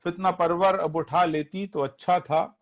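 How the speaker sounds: poetry recitation. Acted. Reciting Majaz nazm to audience.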